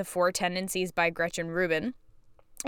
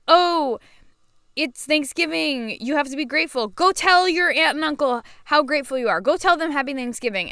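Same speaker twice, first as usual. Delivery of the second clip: mocking bossy voice; 5 semitones higher, 3 dB louder than usual. Mocking people who demand gratitude.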